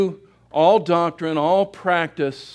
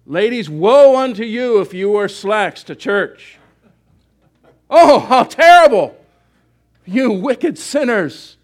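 mock legalistic preacher; 3 semitones higher, 9 dB louder than usual.

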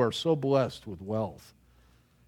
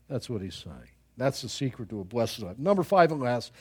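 ordinary talk, nothing marked

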